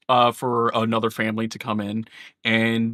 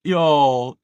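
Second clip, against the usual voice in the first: flustered correction; 6 semitones higher, 7 dB louder, slower than usual. Acted. Matriarch corrects herself mid-speech.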